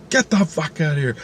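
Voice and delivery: acted-out annoyed vendor; angry dismissal. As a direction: send someone packing. Vendor throws him out.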